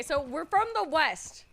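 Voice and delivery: slow, drawn-out Western accent. Shown as a demonstration. Streamer testing her character's Western accent. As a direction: try on a Western accent, slowly. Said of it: "if I say darling like that".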